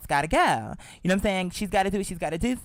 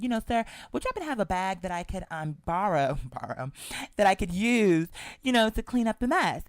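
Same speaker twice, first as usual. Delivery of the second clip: very polite. Retold or imitated. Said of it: "I said it very polite, very respectful".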